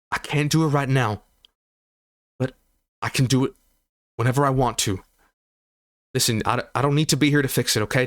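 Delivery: lightly voiced Bernard, coaxing and eager; Bernard reassuring. Bernard coaxing the wounded Calix, lightly voiced.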